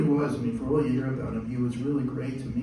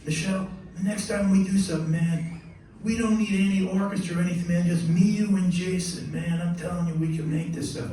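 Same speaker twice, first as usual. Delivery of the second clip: lightly imitated bandleader, pitched up; higher voice pitching an idea, a hint of impression; a jazz trumpeter; 5 semitones higher than usual. Bandleader proposes project to composer, lightly imitated. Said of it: "he looks at Michelle and says".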